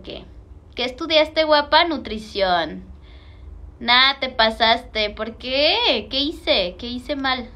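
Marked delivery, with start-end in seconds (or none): none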